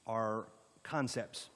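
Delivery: concepts drawn out slowly and leaned on; slow down and weigh the word concepts; stress on concepts. Real, not acted. Presenter to planning commission, leaning slowly on concepts. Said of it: "I'll stress the word concepts".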